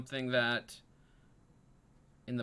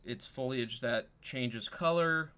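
usual speaking voice

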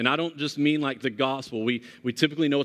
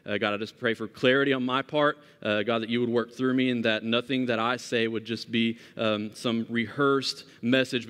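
opening prayer. Acted. Pastor opens with prayer.

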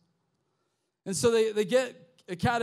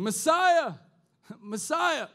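imitated cheering, higher and louder; crowd acclaiming; 7 semitones higher, 5 dB louder, slower than usual. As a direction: hail him like a praising crowd.

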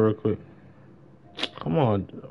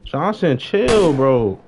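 high, loud yell at a teammate; 5 semitones higher, 6 dB louder, much slower than usual. Real, not acted. Telling teammate Johnson to calm down, loud high yell. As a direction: shout him down to stop.

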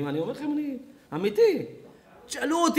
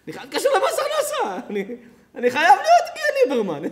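mock the petty neighbour who wants to report him; laughing parody of a jealous grumbler; mocking envious neighbour; 3 semitones higher, 3 dB louder than usual. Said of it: "ואתה אומר".

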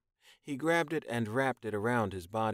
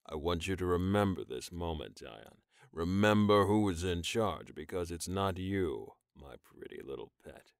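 dominant purr; 4 semitones lower than usual. Acted. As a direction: remind him who owns him. Rojan asserting control.

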